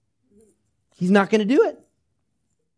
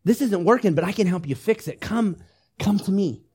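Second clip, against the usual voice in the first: gentle invitation; 3 semitones higher than usual. Retold or imitated. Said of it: "And conviction says".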